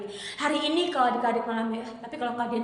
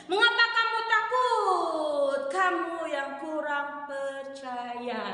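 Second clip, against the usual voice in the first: mock scolding; much slower than usual. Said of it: "Dimarahin kayak gini".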